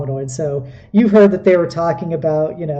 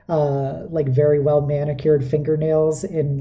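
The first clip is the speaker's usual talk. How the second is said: ordinary talk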